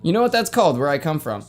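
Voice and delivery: normal talking voice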